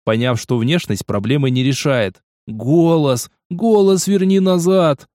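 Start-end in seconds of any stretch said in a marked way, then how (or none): 2.5-5.1 slow, louder, insistent command; demanding order. Acted. Newton orders Fatima to return her voice, insistent. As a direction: bark the order to change back.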